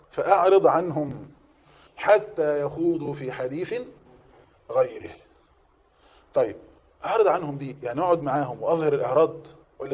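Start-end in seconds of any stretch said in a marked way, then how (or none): 0.1-5.1 slow, measured recitation of يخوضوا. Shown as a demonstration. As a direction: draw out حتى يخوضوا في حديث calmly. Verse recited slowly. (تلاوة بطيئة هادئة)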